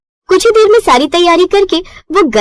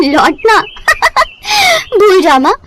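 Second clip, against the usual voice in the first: put-on young bride voice. Daughter teasing her mother.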